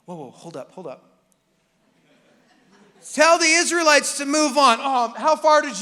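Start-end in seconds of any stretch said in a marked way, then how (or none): 0.1-1.0 startled halt. Retold or imitated. Israelites stopped mid-tattoo. 3.1-4.8 loud high command; firm divine order; God speaking. Retold or imitated. God to Moses, loud and firm. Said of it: "and says".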